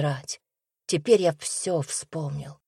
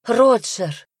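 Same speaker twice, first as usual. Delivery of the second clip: higher, louder frightened call of a name; frightened cry; 6 semitones higher, 6 dB louder than usual. A narrator's reading. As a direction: cry out in fear at his bedside. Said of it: "Эхо перепуганных голосов". (испуганный возглас, выше и громче)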